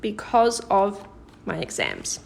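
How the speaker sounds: slow, careful natural phrasing; slow natural version. Shown as a demonstration. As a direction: say the natural English slowly. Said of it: "Or, more naturally in English".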